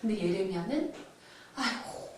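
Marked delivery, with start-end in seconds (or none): 1.6-2.1 very soft acted sigh of dismay; retold grieving sigh; sighing lament. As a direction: sigh it out in sorrow, hushed. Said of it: "보고 탄식했다는 거예요".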